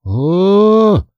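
high, drawn-out exhaled "ah"; gasped "ah". A narrator's reading. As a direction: let out a long high sigh of amazement. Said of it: "только и мог выдохнуть я". (протяжный высокий выдох изумления)

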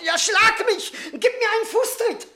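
high, laughing taunt; mocking laugh. Drunkard laughing and taunting the angry brother to strike him. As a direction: dare him to hit you, laughing.

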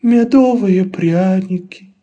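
high, very slow pitiful sighing; mock sigh. Laban begging the bunnies, slow hammed-up sigh. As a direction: sigh it out to make them pity you. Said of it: "вздохнул Лабан".

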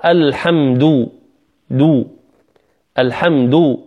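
الحمد ending in a fully rounded "du"; rounded lips. Shown as a demonstration. Teacher modelling الحمد with lips rounded on "du". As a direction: push the lips forward on the last vowel of الحمد. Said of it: "إخراج الشفتين عند الحرف المضموم".

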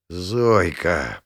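plain reading voice

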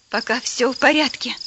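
catching his breath after running; panting lightly between words. Acted. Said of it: "переводя дыхание".

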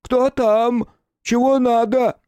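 a nervous youth straining to sound tough and cracking up high; falsetto trying for bass. Acted. Young anarchist at the door asks who it is, in a high falsetto bluff. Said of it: "пытаясь говорить басом, хотя Господь наделил его звонким фальцетом".

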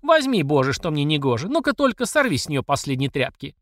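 high, furious accusation; frenzied yell. Acted. Mamasha yells at Platsekina over the jar, high. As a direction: rage at the half-empty jar. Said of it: "исступлённо заорала мамаша".

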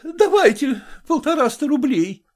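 woman blurting her surrender to the merchant; blurted out. A narrator's reading. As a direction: let it escape high and urgent. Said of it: "вырвалось у Зои Кондратьевны".

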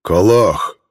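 loud growled bear command; insistent bear. A narrator's reading. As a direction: bark the word like an impatient bear.

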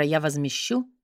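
low quiet echo of his words; mocking his low voice. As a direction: mimic the stranger's curt promise. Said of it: "мистера".

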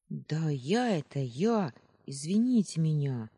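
put-on boy caught by the sentry, voice cracking a little; boy's breaking voice. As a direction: caught kid blurting apologies. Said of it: "срывающийся мальчишеский голос".

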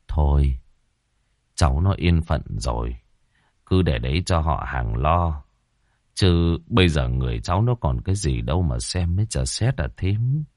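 calm her down gently; consoling. Acted. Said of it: "sầu thảm phân ưu".

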